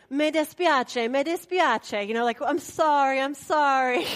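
apologetic. Retold or imitated. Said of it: "so we're like".

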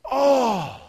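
loud high "oh" falling away; relieved cry. Retold or imitated. Kid grabs counselor's hand, loud relieved cry.

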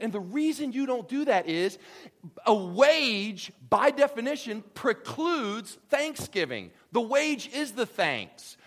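loud, high, emphatic declaration; forceful preaching. Real, not acted. Preacher explains wages to congregation, impassioned and loud. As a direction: drive the point home at full force.

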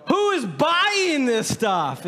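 high, slow cry of comic disbelief; mock incredulous. Pastor asking congregation about absurd colognes, incredulous outcry. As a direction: hammer the question out in exaggerated bafflement.

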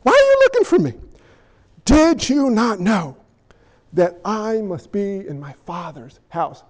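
put-on a child asking with no guile; innocent boy. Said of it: "fully respectfully".

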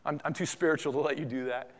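soft, low false humility; mock-spiritual Peter. Peter declining the foot washing, mock-humble and soft. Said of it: "that sounds kind of spiritual".

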